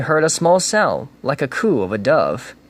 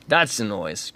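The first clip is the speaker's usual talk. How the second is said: grinning Grinch; 4 semitones lower, 5 dB quieter than usual. Acted. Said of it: "grinned the Grinch".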